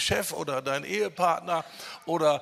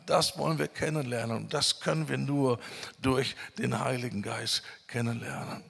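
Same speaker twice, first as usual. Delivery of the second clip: normal talking voice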